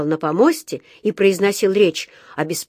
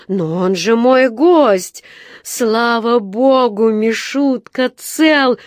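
relieved outburst; 3 semitones higher, 4 dB louder, much slower than usual. A narrator's reading. Sir Huntley relieved, rushes to bear.

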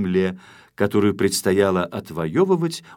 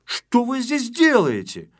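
suspicious questioning; 11 semitones higher than usual. Acted. Shpuntik questioning the intruder.

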